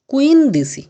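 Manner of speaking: কুইন দিছি called out high and loud, as Italian quindici; loud Italian number demo. Shown as a demonstration. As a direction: call out কুইন দিছি clearly, like a teacher. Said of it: "এভাবে পনেরোকে আমরা বলতে পারি".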